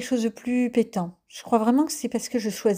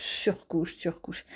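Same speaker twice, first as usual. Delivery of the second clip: trailing whisper; 2 semitones lower, 7 dB quieter, much slower than usual. Real, not acted. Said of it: "whispered repetition".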